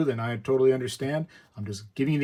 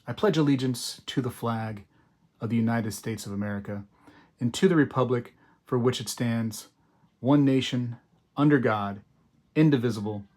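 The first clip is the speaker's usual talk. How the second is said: pledge recitation. Shown as a demonstration. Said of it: "I'm gonna start right now".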